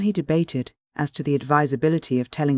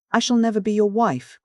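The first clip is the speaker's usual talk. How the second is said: crying out; 7 semitones higher than usual. A narrator's reading. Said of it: "cried the widow".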